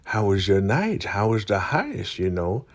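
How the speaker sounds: put-on nosy elder voice; pry in a lifted character voice; Elder Mother Marva. Elder trying to get in Ruth's business, nosy put-on voice. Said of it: "nosy ass Elder Mother Marva, she's like".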